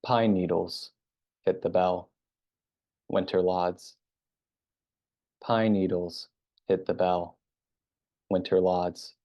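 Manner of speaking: even, restrained recitation in short separated phrases; haiku reading. Real, not acted. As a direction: read it line by line with space after each. Reads own haiku aloud.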